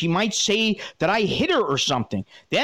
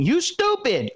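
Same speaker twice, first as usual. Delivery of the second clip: ranting insult; 7 semitones higher, slower than usual. Retold or imitated. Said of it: "She started to rant again".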